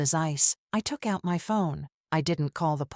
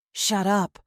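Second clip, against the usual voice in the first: yell; 3 semitones higher, 3 dB louder than usual. Acted. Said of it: "my father yelled".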